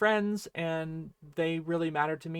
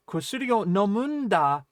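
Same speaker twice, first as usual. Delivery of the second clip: a firm, slightly raised "Kusuri o nomunda"; emphatic; 3 semitones higher, 4 dB louder than usual. Shown as a demonstration. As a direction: press "Kusuri o nomunda" home, invested. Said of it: "sounds emphatic and invested".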